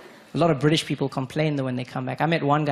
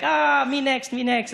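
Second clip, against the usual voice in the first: eager victim; 10 semitones higher, slower than usual. Retold or imitated. Stab victims queuing eagerly.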